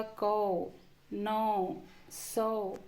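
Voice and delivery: कौ, नौ, सौ drawn out with an a-to-o glide; au vowel. Shown as a demonstration. Teacher showing how the au sign sounds, long au in कौ, नौ, सौ. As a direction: open on a and round to o in कौ, नौ, सौ. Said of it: "तो उच्चारण होगा".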